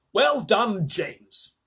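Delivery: high, loud cheer falling away on the name; shouted praise. A narrator's reading. Grasshopper congratulating James from the tunnel, shouted praise. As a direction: call out hearty congratulations. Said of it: "shouted the old green grasshopper".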